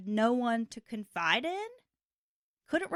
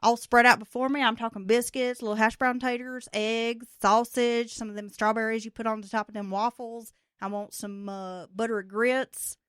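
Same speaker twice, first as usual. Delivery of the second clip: hammed-up horny caller; 7 dB louder than usual. Mock phone sex roleplay.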